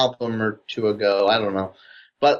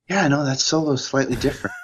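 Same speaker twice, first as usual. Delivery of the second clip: higher-pitched music-nerd voice; hardcore rock band fan; 4 semitones higher than usual. Acted. Speaker mimes a chin-stroking rock band fan, mock nerd voice. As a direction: play a pedantic superfan musing into the mic. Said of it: "super hardcore Rush fan's doing".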